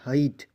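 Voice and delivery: ہائٹ said loud with a clear ai; demonstrating pronunciation. Shown as a demonstration. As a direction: model ہائٹ crisply. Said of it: "دیکھیے". (ہائٹ کا واضح تلفظ)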